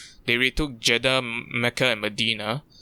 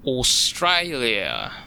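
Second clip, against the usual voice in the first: slow, drawn-out mock Australian accent; deliberately bad Australian accent; much slower than usual. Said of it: "that was a really disgusting Australian accent".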